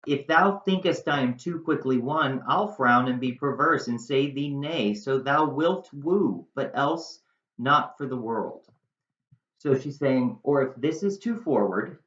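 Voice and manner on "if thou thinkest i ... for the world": Shakespeare recitation. Acted. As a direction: read Juliet's lines like a stage speech. Reciting Juliet's Shakespeare lines.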